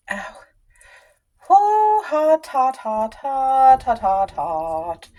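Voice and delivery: yelping from a burn; quick pained yelps, then fading; pained hot hot. Real, not acted. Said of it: "ow! My arm literally just touched".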